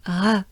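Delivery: "Re" as one exhaled French R; short airy demo of French "Re". Shown as a demonstration. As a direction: breathe out "Re" with tongue down. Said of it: "That's the French R".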